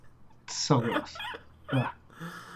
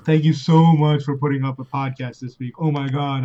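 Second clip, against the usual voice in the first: sarcastic thanks. Pretend. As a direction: fake gratitude, dripping sarcasm. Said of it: "send us your sarcastic thank you notes".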